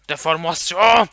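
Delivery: slow, loud, put-on "Deformasyon"; mocking drawn-out voice. Gamer mocking a mutant, slow put-on voice. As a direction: stretch it out mockingly.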